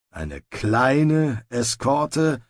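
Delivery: slow, skeptical grumbled echo; doubtful grumble. Acted. Sergeant echoing Snibral's plan, slow doubtful grumble. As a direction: drag out the doubt over kleine. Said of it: "brummte der Feldwebel".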